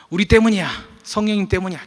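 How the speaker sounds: high, loud back-and-forth bickering; quarrelling children. Retold or imitated. Brother and sister fighting over the answer, high and loud. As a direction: squabble like two kids.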